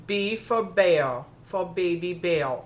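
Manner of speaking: slow, drawn-out "bear", its R softened away; Baby Bear impression. Vlogger slips into a TV puppet's talk while reading a mug, Baby Bear impression. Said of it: "Can't believe I just said that like that".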